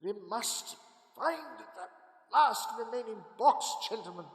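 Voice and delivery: loud, driven call to action; urgent rallying cry. Acted. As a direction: rouse the men to hunt. Van Helsing rallying the men urgently.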